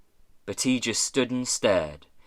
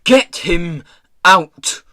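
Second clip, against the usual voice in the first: high, loud, punched command; screamed order; 6 semitones higher, 11 dB louder, slower than usual. A narrator's reading. Pirate boss ordering the cage opened, screaming. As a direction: yell the order word by word. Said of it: "screamed Peavy".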